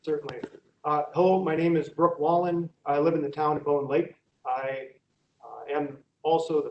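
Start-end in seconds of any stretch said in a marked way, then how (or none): 0.8-4.2 louder, projecting for the room; speaking up. Real, not acted. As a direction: raise the voice so all hear. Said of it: "Could you speak up, please? We can't hear you".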